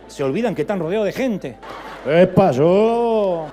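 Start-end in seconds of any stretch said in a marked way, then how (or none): 2.1-3.5 mock trance cry. Mocking people in trance.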